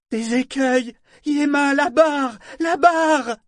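high, drawn-out alarm cries; urgent yelling. A narrator's reading. Liveship urging the boy to the helm, yelling. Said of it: "hurla Vivacia".

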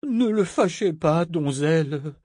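high, urgent stage hiss; furious whisper. A narrator's reading. Governor behind Malta warning her, furious whisper. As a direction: scold her in a strained, altered voice. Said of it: "le gouverneur chuchota, furieux".

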